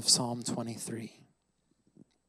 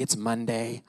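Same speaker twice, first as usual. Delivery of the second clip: glum deadpan; 3 semitones lower, 5 dB quieter than usual. Retold or imitated. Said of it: "I'm like".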